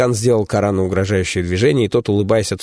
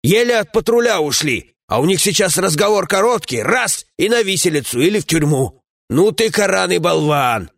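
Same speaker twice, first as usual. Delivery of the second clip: a lightly raised, scolding comrade's voice; gruff dwarf companion; 10 semitones higher than usual. Acted. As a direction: grumble at a foolish friend, voiced a bit higher.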